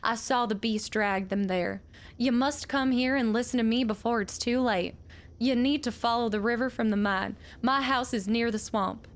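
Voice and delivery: a lightly voiced old widow reading her letter; old widow's letter. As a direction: read it as the bitter old miner's widow.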